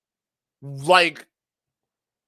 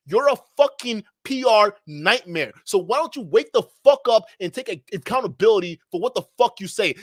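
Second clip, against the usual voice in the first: louder, heated tirade; angry rant; 3 semitones higher, 5 dB louder than usual. Real, not acted. Ranting angrily at Nick over his remark. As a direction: tear into him for what he said. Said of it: "I'm getting fucking pissed off".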